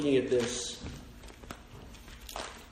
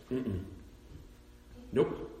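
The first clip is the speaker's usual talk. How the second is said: God's quiet refusal; 4 semitones lower, 10 dB quieter than usual. Retold or imitated. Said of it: "And God goes".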